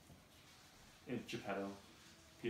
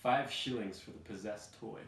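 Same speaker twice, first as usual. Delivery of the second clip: exclaiming guard; 7 dB louder than usual. Acted. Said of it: "The head guard exclaims".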